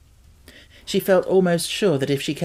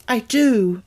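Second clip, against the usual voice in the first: near sob; 8 semitones higher, 5 dB louder than usual. A narrator's reading. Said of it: "almost with a sob in her throat".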